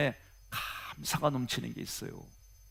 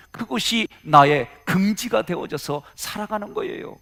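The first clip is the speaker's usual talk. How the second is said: raised-pitch sermon delivery with forceful bursts; emphatic preaching; 4 semitones higher, 3 dB louder than usual. Acted. Preacher urging the congregation to put on Christ, emphatic preaching. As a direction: drive the exhortation home to the congregation. Preacher drives home the application.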